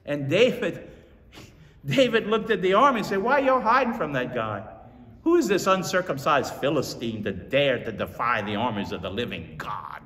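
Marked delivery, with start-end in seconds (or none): 3.2-10.0 bold challenge. Retold or imitated. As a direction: call them out for hiding. David defying army in sermon.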